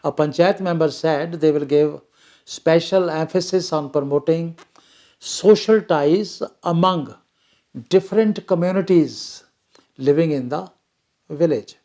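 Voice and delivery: slow, word-by-word reading of the English text; slow dictation reading. Acted. Teacher reading the paragraph aloud to students, slow and deliberate. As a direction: read it out so the class can follow each word. Reads passage line aloud slowly.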